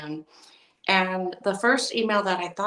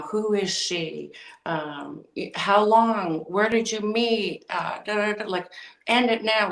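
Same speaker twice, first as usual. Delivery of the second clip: blurting questions; 3 semitones higher than usual. Retold or imitated. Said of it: "I was just blurting out anything that came to mind".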